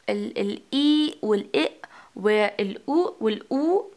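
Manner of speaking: إي والإ والأو said slowly as sound samples; slow careful vowel sounds إي والإ والأو; vowel demo. Shown as a demonstration. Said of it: "لما تنطقين صوت معين".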